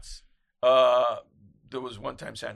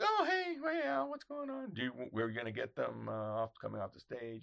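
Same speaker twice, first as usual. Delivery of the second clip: friendly publicist greeting. Retold or imitated. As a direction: greet him like an old friend. Publicists greeting him, acted quote.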